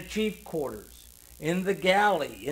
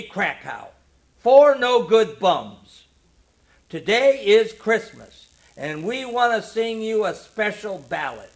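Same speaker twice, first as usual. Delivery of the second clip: booming; 5 semitones higher, 9 dB louder than usual. A narrator's reading. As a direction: boom it to the whole ship. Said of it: "in his deep bass he boomed".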